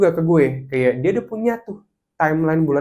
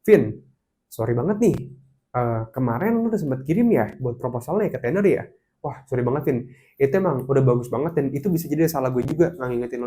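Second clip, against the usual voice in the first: polite apology; 3 dB quieter than usual. Retold or imitated. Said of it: "Kalau dia ngomong kayak gini".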